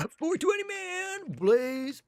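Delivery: mock stoner plea; high-pitched stoner. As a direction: say it like a giggly stoner. Stoner joke on test date.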